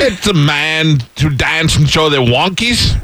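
slow, garbled mock Australian accent; hammed-up Australian outback voice; Crocodile Dundee. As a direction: drag it out in overdone Aussie. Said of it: "I'm like Crocodile Dundee".

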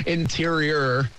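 drawn-out Rhode Island "Interior"; Rhode Island accent. Shown as a demonstration. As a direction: say "Interior" slowly, dropping the final r the Rhode Island way. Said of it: "That's how they say it in Rhode Island".

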